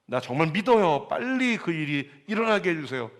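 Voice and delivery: high, loud cry on 내가 믿습니다; shouting father. Retold or imitated. The desperate father shouts his faith to Jesus. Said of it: "소리 질렀다는 거예요".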